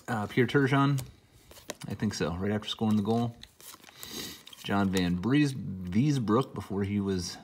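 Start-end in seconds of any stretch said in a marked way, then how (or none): 4.6-7.4 slightly sick voice, under the weather; feeling sick. Real, not acted. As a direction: talk through a mild cold. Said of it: "I'm a little under the weather".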